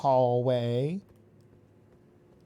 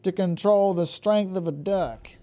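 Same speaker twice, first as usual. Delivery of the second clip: Southern Mother mode; 4 semitones higher than usual. Pretend. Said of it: "Don't mind my weird accent".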